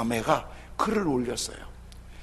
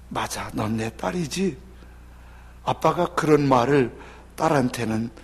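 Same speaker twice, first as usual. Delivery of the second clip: a gentle father's voice, lower and tender; tender father's letter; 3 semitones lower than usual. Retold or imitated. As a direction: read it like a shy father finally saying sorry. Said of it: "쓴 편지가 이런 내용이에요".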